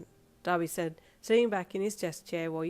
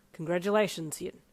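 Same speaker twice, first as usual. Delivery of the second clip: calm. Acted. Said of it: "your dad said calmly".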